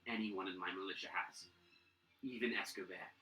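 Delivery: a hint of a solemn old governor; Governor Nighthill. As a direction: ask it as a heavy favor. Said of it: "Governor Nighthill actually moves up to you and he goes".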